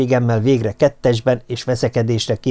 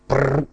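cat purr. A narrator's reading. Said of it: "felelt a leendő anya".

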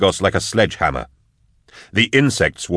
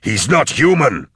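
raised voice climbing into alarm; urgent yell; 3 semitones higher than usual. Acted. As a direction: warn them off with a restrained yell. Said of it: "he yelled to the others".

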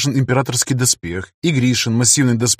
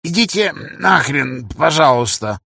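с доброй улыбкой; 3 semitones higher than usual. A narrator's reading. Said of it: "с доброй улыбкой произнёс он".

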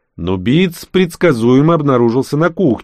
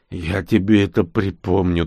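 weak threat. Acted. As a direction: mutter a threat with no strength left. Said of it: "только и смог пригрозить я ему". (вяло угрожая)

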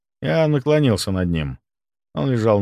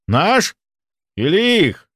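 suspicious challenge; 9 semitones higher, 4 dB louder, slower than usual. Acted. Suspicious gunman.

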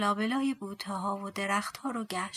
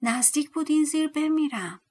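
higher, loud cry of relief; dwarf shouts at his rescuer; shouting dwarf; 6 semitones higher, 4 dB louder than usual. Acted. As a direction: shout it out, nearly died down there. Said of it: "مرد کوتوله با فریاد گفت".

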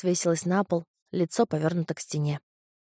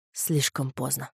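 quiet, grave; 5 semitones lower, 5 dB quieter, slower than usual. A narrator's reading. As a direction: lower and softer, final. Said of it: "ответил Антимах".

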